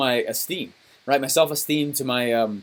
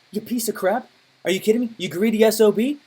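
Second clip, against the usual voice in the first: higher-pitched mock indignation, not shouted; mad; 4 semitones higher than usual. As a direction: act out offended disbelief. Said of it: "I was so mad".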